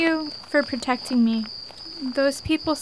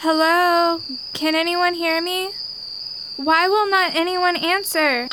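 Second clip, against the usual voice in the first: calling out; 3 semitones higher than usual. Acted. Lost girl calling.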